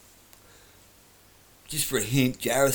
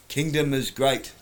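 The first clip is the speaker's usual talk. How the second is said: put-on terrible girl's voice; 4 semitones higher, 4 dB louder, slower than usual. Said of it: "terrible girl's voice".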